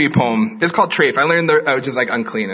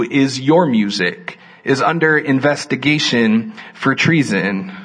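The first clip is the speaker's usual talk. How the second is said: poetry reading. Acted. Reads poem aloud.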